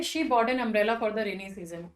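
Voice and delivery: slow, word by word; slow example read. Shown as a demonstration. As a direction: read it slowly so students follow. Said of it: "अब हम यहाँ पे बात कर रहे हैं".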